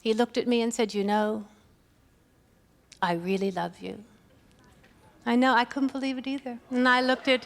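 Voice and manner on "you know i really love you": lower, strangely solemn husband; mildly imitating a stiff husband saying love; husband's odd tone. Husband's awkward anniversary declaration, lightly lower voice. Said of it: "Why did you say it like that?".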